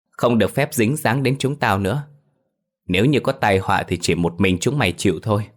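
lightly voiced domineering patriarch, condescending; arrogant clan head. Clan head banishing Phiên's family, lightly haughty.

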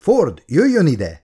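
slow, high-pitched command; urgent order. A narrator's reading. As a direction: summon a subordinate over. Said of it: "adta ki az utasítást". (sürgető, magas hangú utasítás)

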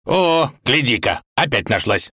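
mildly pleased tsar; understated glad exclamation; delighted, mildly. A narrator's reading. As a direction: show a touch of happy surprise. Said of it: "обрадовался он".

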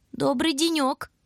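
high, slow quavering stranger's voice; a creaky voice calling in through the window; rattling old voice. A narrator's reading. Stranger greets the house from outside: high, slow, rattling. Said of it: "продребезжал снаружи голос".

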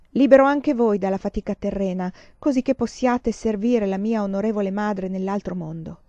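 a lightly chanted, solemn ritual line; intoned blessing. A narrator's reading. A gentleman blessing the freed doves, lightly intoned. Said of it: "intonò di nuovo il gentiluomo".

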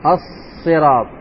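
slow, with the sad in الصراط held and doubled. Shown as a demonstration. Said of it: "الصاد مشدد". (الصاد مشددة في الصراط، ببطء)

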